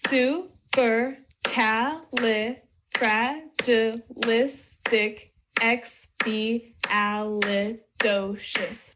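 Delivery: "Supercalifragilisticexpialidocious" very slowly, one syllable per beat. Shown as a demonstration. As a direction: break "Supercalifragilisticexpialidocious" into separate beats to count along. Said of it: "Count along as I clap".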